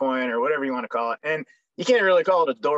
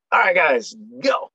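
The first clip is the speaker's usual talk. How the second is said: retold urging call; 3 semitones higher, 5 dB louder than usual. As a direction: urge the squad on, half shouting. Urging commandos forward, retold.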